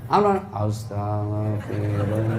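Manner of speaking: slow, low mock weeping; drawn-out istighfar in a pretend sob; fake crying. Wife says istighfar before angry husband, pretending to cry. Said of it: "Sambil pura-pura menangis".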